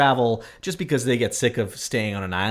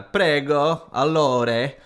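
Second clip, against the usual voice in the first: Italian words; 3 semitones higher, much slower than usual. Shown as a demonstration. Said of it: "and that's how it sounds".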